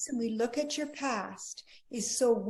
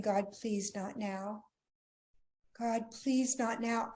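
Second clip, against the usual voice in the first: pleading prayer; 3 dB quieter, slower than usual. Retold or imitated. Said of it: "she's crying to God".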